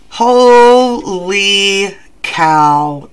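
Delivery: very slow, stretched exclamation; drawn-out amazement. Real, not acted. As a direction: stretch each syllable out in astonishment. Amazed reaction to the card drawn.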